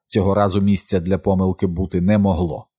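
ordinary delivery

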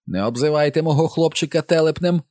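high wailing mother's cry; mother wailing at the officer; wailing Mrs Dulin. A narrator's reading. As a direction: wail in protest for her son. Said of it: "заволала місіс Дулін".

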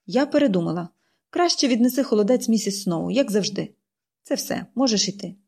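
unbending aunt closing the subject; relentless. Acted. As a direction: clip off the matter, no arguing. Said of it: "Голос міс Полі раптом став невблаганним".

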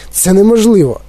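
objecting. A narrator's reading. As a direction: object with a lift in pitch. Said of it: "заперечив Майк Ті Ві". (заперечливо, вищим голосом)

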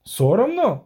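indignant high "Соромно?" with a falling end; surprised. Acted. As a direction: repeat the word in offended surprise. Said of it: "здивувався Барт".

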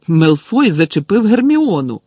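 high, loud indignant outcry; exclaiming. A narrator's reading. Ron tells Snape that Hermione was hit, exclaiming. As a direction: blurt out the accusation. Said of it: "вигукнув Рон".

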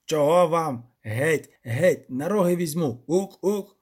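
lightly voiced gruff creature threat; a hint of a goat demon warning off; goat devil voice. A narrator's reading. Creature threatens intruders with horns, lightly voiced.

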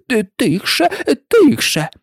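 urgent stage hush, half-voiced; hushing whisper. A narrator's reading. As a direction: hush her hastily, stumbling. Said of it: "зупинив її кролик пошепки".

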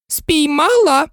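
high, drawn-out gleeful shout; Queen catching her shawl, joyful high shout; joyful cry. A narrator's reading. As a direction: cry it out in delight. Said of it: "радісно закричала вона".

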